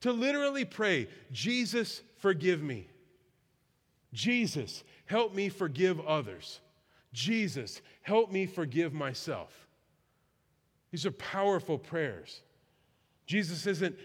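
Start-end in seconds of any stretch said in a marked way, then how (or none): 1.3-9.7 slow, low, measured plea; earnest prayer. Shown as a demonstration. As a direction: pray it slowly, pausing after each plea. Models a heartfelt prayer to Jesus.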